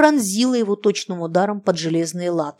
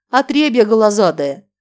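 contemptuous, louder scoff; scornful sneer; 6 dB louder than usual. Acted. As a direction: spit it out with scorn. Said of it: "боярский сын усмехнулся".

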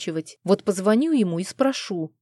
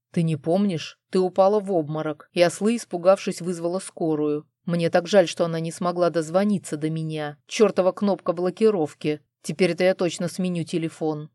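irritated growl. Acted. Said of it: "раздражённо прорычал он".

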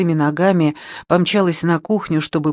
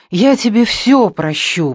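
almost shouting, high and loud; near shout; 5 semitones higher, 4 dB louder than usual. Acted. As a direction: nearly cry it out in joy. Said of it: "почти закричала она".

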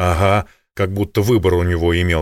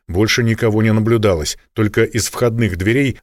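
plain reading voice

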